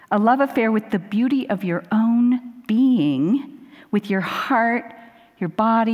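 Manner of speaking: slow, measured reading with pauses; inspirational quote reading. Acted. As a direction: read it out reverently, phrase by phrase.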